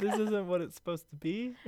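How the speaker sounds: squeaky high voice. Pretend. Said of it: "continues body voice".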